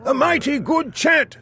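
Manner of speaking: a king tickled by the spell; pleased king. Acted. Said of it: "said the king, looking very pleased".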